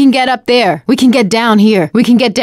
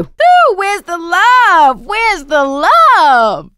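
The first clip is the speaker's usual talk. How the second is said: mock hurt; 6 semitones higher, much slower than usual. Teasing after being hit.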